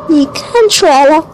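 sly doctor savouring a dark secret; creepy doctor voice. Acted. Creepy doctor reveals the dead.

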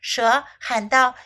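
bright, lively storybook reading, switching English and Chinese; story narration for children. A narrator's reading. Teacher reads the elephant story aloud to young learners, lively storybook voice. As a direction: read it like a bedtime picture book, lively and clear.

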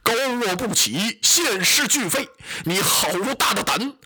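put-on Zhang Fei dressing down a drunk magistrate; hammed-up general's wrath; angry rebuke. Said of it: "张飞生了气了".

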